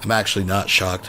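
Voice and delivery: deadpan mock reassurance, pitch sinking; sarcastic. Real, not acted. Host answering donor's jab at Vaughn, sarcastic. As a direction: dryly insist on it, voice dropping. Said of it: "I'm being sarcastic".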